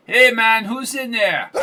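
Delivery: put-on a thug with a Spanish accent calling up, high; high-pitched Spanish accent. A narrator's reading. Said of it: "asked a high-pitched voice with a Spanish accent".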